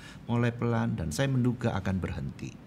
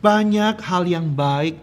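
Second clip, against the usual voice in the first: loud, high-pitched preaching; khotbah berapi-api; 8 semitones higher, 8 dB louder than usual. Real, not acted. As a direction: drive the message home to the congregation. Preaches with rising force. (berkhotbah lantang dengan nada tinggi)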